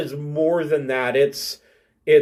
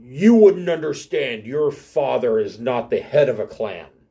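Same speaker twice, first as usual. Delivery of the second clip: words growled out; 3 semitones lower than usual. Voicing a character in a tabletop game, replying to another character: growling. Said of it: "he kind of growls".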